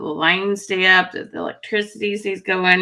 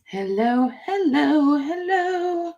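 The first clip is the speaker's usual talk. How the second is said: each hello climbs higher, ending very high; rising sing-song hellos; 6 semitones higher, 4 dB quieter, slower than usual. Real, not acted. Calls out to the chat in a climbing voice.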